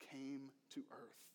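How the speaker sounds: hushed, breathy whisper. Real, not acted. Preacher whispers of Jesus coming to earth. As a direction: sink to a whisper for the awe of it.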